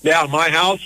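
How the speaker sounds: talking through pizza; words round a bite of pizza; mouth full. Real, not acted. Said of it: "Sorry, I got pizza in my mouth".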